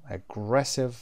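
drawn-out "aggressive" with GRESS stressed; stress on second syllable. Shown as a demonstration. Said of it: "قسمت دوم".

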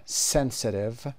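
slow "sensitive" with SEN stressed; stress on first syllable. Shown as a demonstration. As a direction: hit the opening syllable of "sensitive". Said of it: "قسمت اول".

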